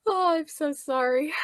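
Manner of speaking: high, giggly sorry; laughing apology. Real, not acted. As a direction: apologize while still cracking up. Apologizing while still laughing.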